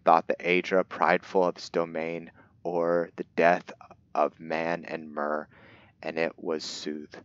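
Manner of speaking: put-on measured storybook narration of an old legend; book reading. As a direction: read it like an ancient tome, lightly dramatic. Reads the in-game book aloud.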